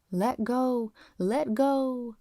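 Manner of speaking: half-hearted fervent cry of a praying father; retold shout. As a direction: call it out like a hammed-up preacher. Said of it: "real loud in the voice of Sinai".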